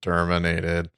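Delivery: put-on a lightly done Arnold Austrian accent; deadpan Arnold Austrian accent, said as the Terminator; bad Arnold accent. Answering the co-host's setup as the Terminator, a hint of an Arnold Austrian accent. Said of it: "give me a Terminator line".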